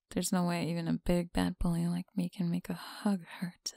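teasing close whisper; breathy whisper to a listener. Acted.

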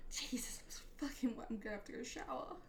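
breathless, whispery and quick; out of breath. Real, not acted. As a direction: talk while catching your breath. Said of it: "I'm so out of breath after that one".

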